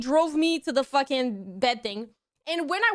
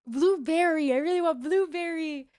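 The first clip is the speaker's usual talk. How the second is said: drugged-out pleading. Retold or imitated. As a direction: imitate a dopey patient asking for a treat. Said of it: "I drugged out, drugged out".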